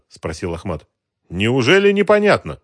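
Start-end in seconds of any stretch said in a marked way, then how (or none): 1.3-2.6 smiling. A narrator's reading. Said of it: "улыбнулся мужчина".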